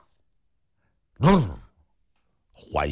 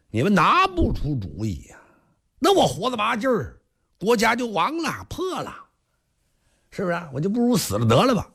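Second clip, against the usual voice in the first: tearful king; 9 semitones higher than usual. Acted. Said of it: "国王含着泪".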